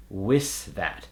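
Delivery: "wis that" with hissed S ending with. Shown as a demonstration. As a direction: swap TH for S in "wis". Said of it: "they'll make it an S sound".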